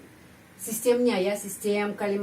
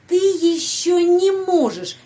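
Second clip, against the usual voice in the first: "не можешь" in one breath, much higher and louder, slow; linked не; 9 semitones higher, 7 dB louder, slower than usual. Shown as a demonstration. Teacher models joining не to the verb. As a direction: run "не" straight into "можешь". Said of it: "не sambungkan se kata kerja".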